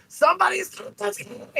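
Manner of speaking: very high, all-out scream. Retelling screaming to get people's attention: imitating own loud scream. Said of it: "I was just screaming as loud as I fucking could".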